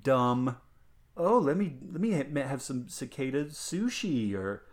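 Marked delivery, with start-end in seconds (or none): 1.2-4.3 mocking hipster voice. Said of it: "mocking hipsters".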